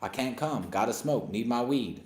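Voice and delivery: a light laid-back rapper impression, barely shifted from his own voice; half-hearted rapper imitation, mostly his own voice; rapper impression. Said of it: "That's my Snoop Dogg impression".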